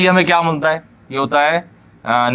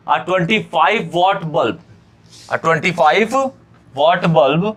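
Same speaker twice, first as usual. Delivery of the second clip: reading out the question word by word, slowly; slow dictation pace for the class; much slower than usual. Shown as a demonstration. Teacher reading the question to students, slow dictation.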